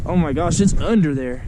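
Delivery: urgent excitement at the fish; fighting a fish. Real, not acted. Fish diving under the ice.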